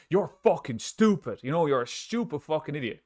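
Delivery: real put-down, genuinely hostile; aggressive insult. Shown as a demonstration. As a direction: spit it out like you mean it. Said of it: "But if they're like".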